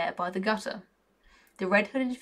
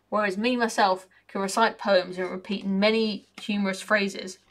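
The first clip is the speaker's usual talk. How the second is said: a lightly voiced cocky, grumbling raven; mildly put-on raven voice with a working-class grumble. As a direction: moan like a sour bird who feels left out. Raven character voice.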